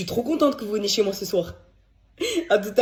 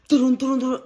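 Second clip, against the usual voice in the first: galloping hooves; 4 semitones higher, 4 dB louder than usual. Retold or imitated. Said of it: "oh, ils galopent".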